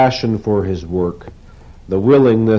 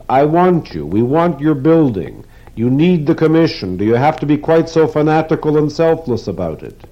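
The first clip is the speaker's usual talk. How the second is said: much higher, exasperated begging; pleading moan; 8 semitones higher, 4 dB louder than usual. Acted. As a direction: beg him, half despairing. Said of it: "Weidler moaned".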